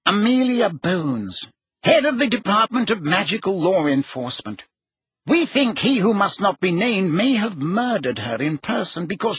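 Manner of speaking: high, grave official breaking bad news; harried Fudge. A narrator's reading.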